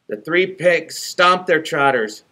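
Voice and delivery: ordinary delivery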